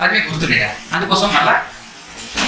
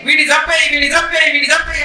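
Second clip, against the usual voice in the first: higher-pitched chant of a mob, mildly voiced; mob shouting; 4 semitones higher than usual. Crowd demanding a man be killed, mock shouting. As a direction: imitate a crowd clamouring, pitch raised. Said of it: "అని అరుస్తున్నప్పుడు".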